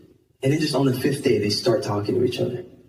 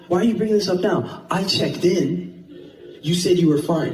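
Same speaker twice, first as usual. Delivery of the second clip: upset protest; 6 semitones higher than usual. Retold or imitated. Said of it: "I'm, I'm, I'm upset".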